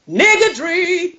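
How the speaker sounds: high, slow, dramatic exclamation; mock gasp. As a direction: gasp it out in scandal.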